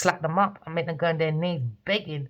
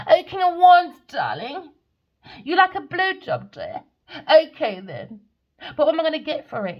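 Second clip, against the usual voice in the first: breathy vintage purr; 8 semitones higher, 6 dB louder than usual. Retold or imitated. Mock woman bargaining.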